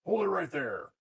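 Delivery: lightly voiced Master Fog; Master Fog's voice. Shown as a demonstration. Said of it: "And I'm still in Master Fog's voice".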